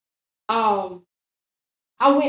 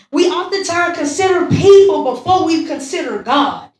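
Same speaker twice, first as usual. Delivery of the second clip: higher-pitched, forceful sermon delivery; emphatic preaching; 4 semitones higher, 5 dB louder than usual. Real, not acted. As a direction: press each point home to the congregation.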